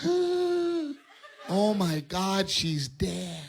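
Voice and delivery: shocked wife. Retold or imitated. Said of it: "My wife goes".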